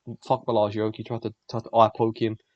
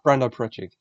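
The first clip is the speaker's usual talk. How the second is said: laughing retake; 5 dB louder than usual. Real, not acted. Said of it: "what the fuck was that accent?".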